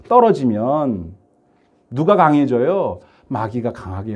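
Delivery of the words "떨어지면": 떨어지면 drawn out slowly and falling; slow stress on 떨어지면. Shown as a demonstration. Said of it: "이 표현이 맞는 표현은 아니지만".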